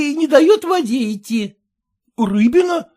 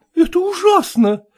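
horrified. Acted. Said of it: "ужасается барыня".

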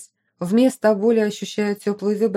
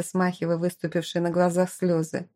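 ordinary delivery

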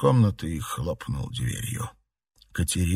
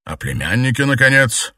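dark lord; 4 semitones higher, 6 dB louder than usual. A narrator's reading. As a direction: threaten coldly. Emperor blackmails.

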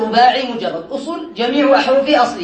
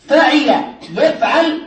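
slow pattern demo; much slower than usual. Shown as a demonstration. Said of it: "teacher demonstrates pattern slowly".

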